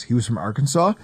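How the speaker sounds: whispered like a secret; hushed confiding whisper. Shown as a demonstration. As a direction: drop to an unvoiced whisper on Arkansas. Repeats line, then whispers it.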